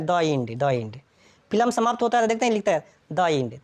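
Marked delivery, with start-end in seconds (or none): 0.0-1.0 "the end" as "daw ind"; THE as "duh". Shown as a demonstration. Teacher recalls the childhood misreading, "the end" as duh end. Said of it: "हम लोग बचपन से यही पढ़ते हैं". 3.1-3.6 "the end" as "duh end". Shown as a demonstration. Teacher quotes film closing title wrongly read, "the end" as duh end. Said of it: "the end वहाँ नहीं पढ़ना है".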